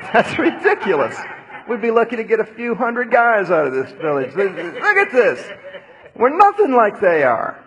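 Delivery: high, loud, laughing in disbelief; scoffing servant. Acted. Servant scoffing at the prophet, laughing in disbelief. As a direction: laugh it off as absurd. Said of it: "The servant's like".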